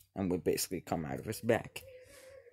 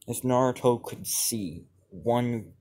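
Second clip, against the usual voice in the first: ordinary delivery, nothing marked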